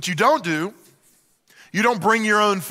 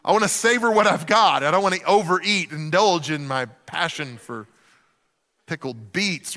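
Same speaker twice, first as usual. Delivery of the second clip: frantic fake refusal. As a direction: dodge a second helping, hammed-up. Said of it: "And you're like".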